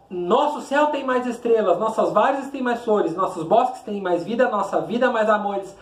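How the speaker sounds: measured, rhythmic declamation; poem recitation. Shown as a demonstration. Teacher reading the poem aloud to students, declaiming.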